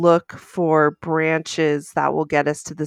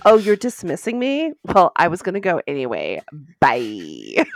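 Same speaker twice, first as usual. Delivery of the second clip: sassy droid. Pretend. Voicing the sassy office droid.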